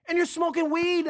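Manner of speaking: high, loud, hammed-up disbelief; mock outraged shout. Boss discovering the weed, a high, loud mock outrage. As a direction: shriek it in shocked outrage.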